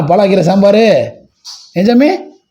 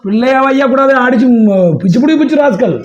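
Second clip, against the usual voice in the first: higher-pitched playful threat; mock scolding; 6 semitones higher than usual. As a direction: pretend to tell someone off for the child. Mock scolding on the child's behalf.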